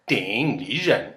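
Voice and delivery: "Ding Lizhen" said slowly with a falling "Lizhen"; alternate tone reading. Shown as a demonstration. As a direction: draw out "Ding Lizhen" to show another tone pattern. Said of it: "his name could be pronounced".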